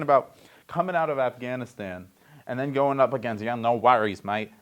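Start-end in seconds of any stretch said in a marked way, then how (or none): 3.4-4.5 put-on light, casual New Zealand accent. Host imagines a cricket player, New Zealand accent. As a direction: attempt a New Zealander's easygoing reply. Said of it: "That's my New Zealand accent".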